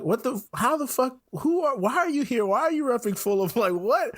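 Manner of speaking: high-pitched mock British bafflement; bad British accent. Stranger baffled by a Fulham supporter, bad British accent. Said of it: "I'm gonna do a bad British accent here".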